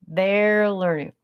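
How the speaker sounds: THEY'RE LEARNING stretched out slowly; slow emphatic repeat. Real, not acted.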